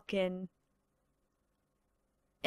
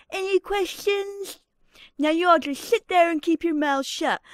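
put-on a bratty little tyrant bossing the kids; Stewie impression; 3 semitones higher than usual. Babysitter bossing the grounded kids, bratty mock-British impression. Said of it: "let's get on with some of these impressions".

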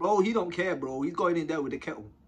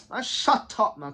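loud, higher brush-off; dismissive snap; 3 semitones higher, 5 dB louder, slower than usual. Retold or imitated. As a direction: shut him down sharply. Quoting Boxer snapping back.

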